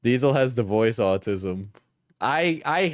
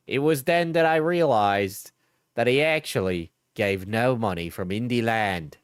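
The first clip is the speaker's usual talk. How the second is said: Acted. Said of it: "but not Australian enough".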